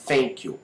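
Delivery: "thank you" said as "fenk you"; F in place of TH in "thank you"; learner's wrong "thank you", starting with F; mispronounced F. Shown as a demonstration. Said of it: "e nem".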